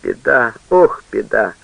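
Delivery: keen over the disaster; mother wailing in despair; lamenting mother. A narrator's reading. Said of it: "причитала мать".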